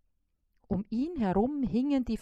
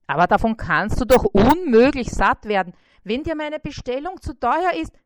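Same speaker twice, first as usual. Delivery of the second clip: concerned fly; 5 semitones higher, 8 dB louder than usual. A narrator's reading. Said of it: "Bissi worries".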